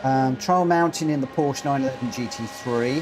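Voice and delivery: ordinary talk, nothing marked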